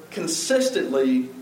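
consistently said slowly, every syllable drawn out; stress on consistently. Shown as a demonstration. Preacher pointing the congregation to consistently, slow and stressed. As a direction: lean hard on consistently, slowly. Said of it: "I want you to notice that other word".

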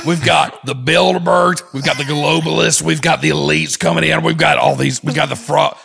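lightly voiced ranting conspiracy host; Alex rant impression. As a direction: rattle off the list with mounting indignation. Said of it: "Thank you, Alex".

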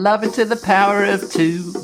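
high, sing-song approval; playful enthusiasm. Pretend. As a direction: top your earlier praise in a high lilt. Playfully topping own "love it.

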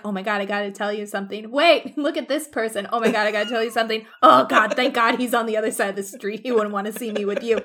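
fast, easily distracted chatter; hurried, self-interrupting mock excitement; rushed gabbing. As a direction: imitate a scatterbrained gossip racing along. Admiral keeps interrupting himself.

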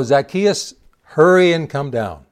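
loud call up into a tree. Acted. Jesus calling Zacchaeus down from the tree, loud call. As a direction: shout it up to the man in the branches.

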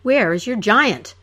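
a moderate mock roar; hero roars. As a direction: bellow it across the court. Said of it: "the hero roared".

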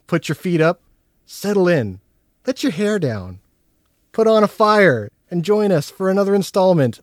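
upbeat podcast host intro; show host. Acted. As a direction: welcome everyone like a showman.

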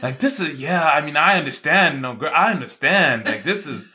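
high, sweet put-on voice of concern; imitating Callie. Imitating Callie comforting the tired hiker, high and sweet. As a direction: mimic her switching to gushing sympathy. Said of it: "switches up and is like".

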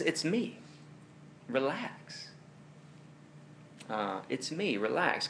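soft, easy reassurance; comforting. Acted. Jesus calming the terrified disciples, comforting. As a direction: gently talk frightened friends down. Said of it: "are words of comfort".

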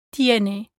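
"tiene" with tongue touching the back of top teeth; soft dental T in "tiene", no puff of air; soft Spanish T. Shown as a demonstration. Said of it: "with your tongue touching the back".

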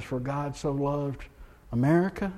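misquote the verse on purpose, leaning on America; mock misquote. Shown as a demonstration. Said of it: "John three sixteen says".

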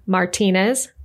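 Martinez as mar-TEE-nez, for Maritza; misread name. Retold or imitated. US readers getting her name wrong, misread as Martinez. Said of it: "depending on how they read their name".

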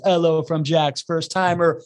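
"Hello" as a slow "'ello"; slow it down and drop the H of "Hello"; dropped H. Shown as a demonstration. Host reading a first-timer's message, "Hello" without H. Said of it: "not gonna pronounce a single H".

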